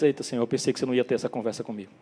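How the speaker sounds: low, quick, soft reply; mildly acted, hushed embarrassed reply; sheepish aside. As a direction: slip it out quickly and quietly. Imagined sheepish Pedro replying to Jesus.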